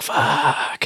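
imitating a hard-hit "oh no" moment; retold stunned reaction.

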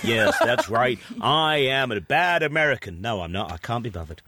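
put-on American accent slipping into plain British; American accent dropping off. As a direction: start American, drop the accent. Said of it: "he stops doing his accent".

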